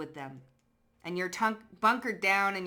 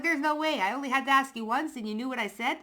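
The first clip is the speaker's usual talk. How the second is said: mock disbelief; 6 semitones higher, 4 dB louder, faster than usual. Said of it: "I was like".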